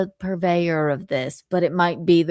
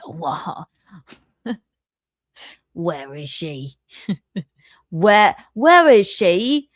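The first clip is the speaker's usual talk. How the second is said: mock British accent; 3 semitones lower, 4 dB louder, slower than usual. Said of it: "a British accent".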